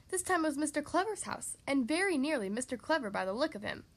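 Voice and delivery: measured, lively storybook reading; story narration. A narrator's reading. Reading a picture book to children, lively story narration. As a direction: read it out clearly to young listeners.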